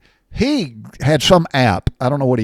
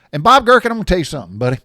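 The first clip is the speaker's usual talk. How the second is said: much higher and louder, bursting out the name; excited outburst; 8 semitones higher, 6 dB louder, much faster than usual. Retold or imitated. Telling listeners about Bob Gherkin's offer, excited high and loud. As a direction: blurt it out like big news.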